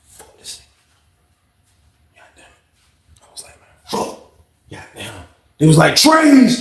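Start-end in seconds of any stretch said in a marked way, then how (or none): 0.1-5.3 slow, barely voiced cursing; muttered exasperation. Inmate fed up and plotting, muttered exasperation. Muttering to himself in retold story. 6.0-6.6 loud, high announcement; calling out. Retold or imitated. Officer announces meal time to the pod, calling out. Retold call for meal trays.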